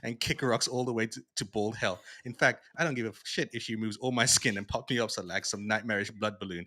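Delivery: loud ranting comic villain read; loud quote reading. Retold or imitated. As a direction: rant it out like a trash-talking hero. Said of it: "I have it here somewhere".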